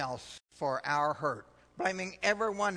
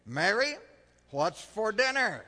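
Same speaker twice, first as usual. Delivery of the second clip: calling from the door; 4 semitones higher, 5 dB louder than usual. Acted. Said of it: "She just keeps chopping carrots".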